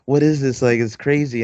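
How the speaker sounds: put-on excited child. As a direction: gush like an amazed little kid. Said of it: "super excited".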